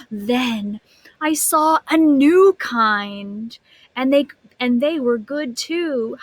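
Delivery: lively storybook reading voice; animated read-aloud for a class; reading to children. A narrator's reading. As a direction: read it like a picture book to kids.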